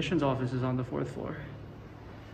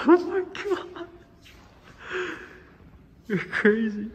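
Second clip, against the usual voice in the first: high, loud, cry-like gasp of disbelief; shocked shriek; 13 semitones higher, 5 dB louder than usual. Real, not acted. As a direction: shriek it at a friend's outrageous idea. Friend suggests smashing museum glass.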